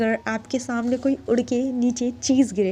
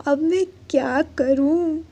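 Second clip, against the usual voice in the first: slow, frightened whisper of a cornered student; scared whisper; 5 semitones higher than usual. Retold or imitated. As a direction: breathe it out in panic, slowly. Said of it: "डर जाते हैं".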